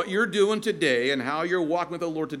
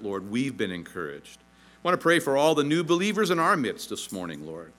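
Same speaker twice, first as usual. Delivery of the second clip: pastoral prayer; 5 semitones lower than usual. Real, not acted. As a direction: address God sincerely, settling into a hushed tone. Leads the congregation in prayer.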